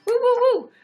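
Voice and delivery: high, loud little whoops; three high cheering woos; celebratory whoop. Real, not acted. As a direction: whoop in thanks to a viewer. Cheering a viewer's gift.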